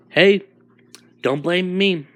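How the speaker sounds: loud, high protesting hey; defensive. Acted. Monster answering Izuku's insult, loud and defensive. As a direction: snap back, defending yourself.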